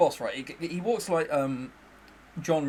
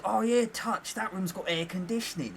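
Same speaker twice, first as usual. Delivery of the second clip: Essex boss; 4 semitones higher, 4 dB quieter than usual. Retold or imitated. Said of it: "his reaction was".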